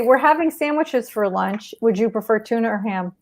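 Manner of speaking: calm, simple two-way choice. Shown as a demonstration. Caregiver calmly offering mom two lunch choices. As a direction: offer just two options, gently. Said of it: "just say".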